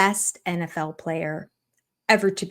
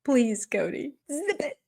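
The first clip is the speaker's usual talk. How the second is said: breathy whisper, hushing someone; whispered shush; 5 semitones higher, 4 dB quieter, slower than usual. Retold or imitated. Commentator whispering to hush the cast member. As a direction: hush them under the breath.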